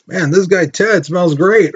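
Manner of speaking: gushing, jokey voice of a delighted German; mock German gardener. Teacher mocks a German admiring body soap, hammed-up. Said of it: "a German person be like".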